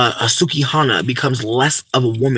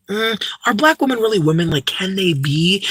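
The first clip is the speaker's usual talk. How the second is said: higher-pitched doubting question; put-on puzzled scepticism; mock skeptical; 5 semitones higher than usual. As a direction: imitate a doubter, pitch lifted then slowing.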